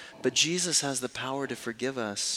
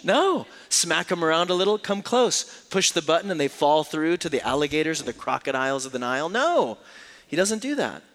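animated exclamation; 3 semitones higher, 4 dB louder than usual. Acted. Mock Stooges routine, then denial.

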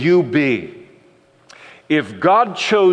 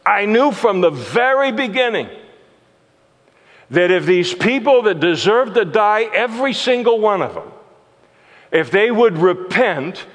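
raised, heated protest to God, lightly acted; Jonah's complaint; 5 semitones higher than usual. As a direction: push back at God as an upset prophet.

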